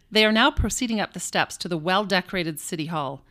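lightly voiced vintage radio announcer; a hint of old newsreel commentary; old-timey radio voice. Shown as a demonstration. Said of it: "old-timey radio voice".

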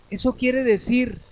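high, slow fearful question. Acted. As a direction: ask it in dread. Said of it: "preguntó temeroso".

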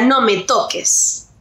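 drawn-out, understated retold cry; retold yell. Friend retelling a woman's scream over the phone, understated yell. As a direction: report her yell slowly, without raising the voice. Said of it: "la escucho que ella grita".

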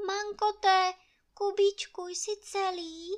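high, alarmed call; Anče crying out after the blast; frightened cry. Acted. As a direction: cry out for her husband in fright. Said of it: "vykřikla Anče".

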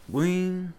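mimicked bell noise; imitated doorbell. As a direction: sound out a doorbell chime.

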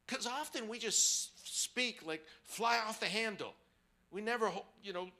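heated preaching. Acted. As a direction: preach it with fire. Preacher heats up on anger.

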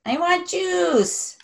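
put-on drawn-out whining child demand; whiny kid voice. Father imitating daughter whining for juice. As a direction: stretch it out like a sulky toddler.

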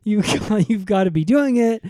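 lightly voiced bossy cop; mock cop. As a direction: stumble like a flustered cop. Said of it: "he's like".

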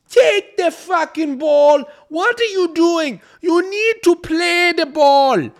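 high, loud, slow furious coach shout; Trini coach yelling. Retold or imitated. Coach yelling at a player to take the ball. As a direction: bellow like an angry football coach. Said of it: "I had a Trini coach once".

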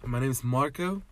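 lightly put-on British accent, lilting up at the end; a mild British English introduction. Podcast host introducing himself to listeners, British accent. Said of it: "Marco's gonna do British accent".

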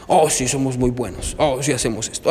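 mock smugness; smug boasting. Voicing smug people.

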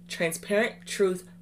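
slow, word-by-word delivery; deliberate, cautious pronunciation; careful, correct enunciation. Real, not acted. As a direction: space the words out to get them right. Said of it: "make sure I say it correctly".

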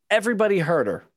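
high-pitched mock correction; exasperated retort. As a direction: answer the repeater in a high voice. Mock reply to repeated film line.

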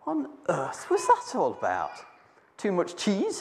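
laughing through a baffled question; bemused laughing. Acted. Peter waking from the vision, laughing in confusion. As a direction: chuckle at the strange dream. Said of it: "Peter waking up going".

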